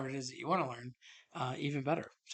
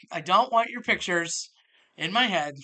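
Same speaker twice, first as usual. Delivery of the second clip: raised-voice exasperation, stretched out; exasperated; 3 semitones higher, 7 dB louder than usual. Acted. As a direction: push each word out, fed up and insistent. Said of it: "it just makes me bananas".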